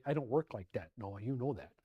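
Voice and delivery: lightly voiced God, low and even; calm God. God answers an angry Noah, calm and low.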